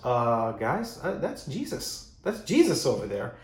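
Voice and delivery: hesitant, halting start as it sinks in; mock-tentative, pitch lifting on the discovery; dawning realization. John tells the other disciples, dawning realization. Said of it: "wakes up from this dreamy haze".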